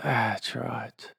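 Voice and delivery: a breathy whispered affirmation. Acted. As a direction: drop to a bare whisper to soothe.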